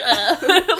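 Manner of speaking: mock "ugh" through laughter; imitated grunt. Imitates reaction to the hit.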